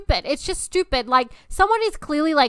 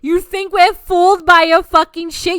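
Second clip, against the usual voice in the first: angry retort; 3 semitones higher, 5 dB louder than usual. Retold or imitated. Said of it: "And I'm like".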